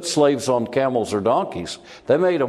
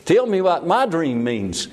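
eager, higher-pitched plea; the baker begging to hear his dream told; excited; 5 semitones higher than usual. Retold or imitated. Baker eagerly asks Joseph to explain his dream, excited. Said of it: "the baker's all excited".

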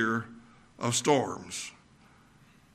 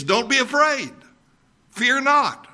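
higher, fervent preaching; emphatic proclamation; 9 semitones higher than usual. Acted. Preacher urging his church not to fear, fervent.

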